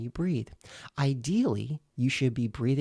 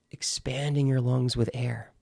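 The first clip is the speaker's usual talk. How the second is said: breathy whisper. Shown as a demonstration. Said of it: "like this".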